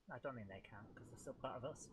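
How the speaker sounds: unvoiced quiet whisper; whispered aside. Real, not acted. Telling chat under his breath that Scotland and Wales don't count. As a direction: murmur it as a cheeky aside.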